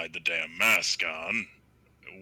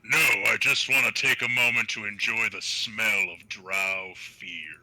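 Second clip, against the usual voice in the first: savouring; 4 dB louder than usual. Acted. Player's character enjoys enemies' fear, savouring. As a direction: draw pleasure from it, dropping away at the end.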